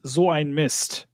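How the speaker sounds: slow German "So ein Mist", with a z sound on "So"; imitating Wario's German. Panelist quoting Wario failing in Mario Party, German curse. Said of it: "he says".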